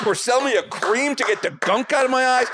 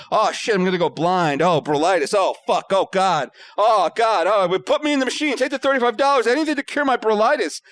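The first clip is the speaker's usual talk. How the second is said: mock panic climbing in pitch as it goes; panicked. Patient thinking he will go blind, mock panicking. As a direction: build from dread to frantic pleading, hammed-up.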